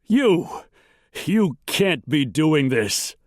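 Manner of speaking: high, aghast protest; shocked, strained plea; panicked gasp. A narrator's reading. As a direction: gasp it out in disbelief, pitched high. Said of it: "Wolford gasped".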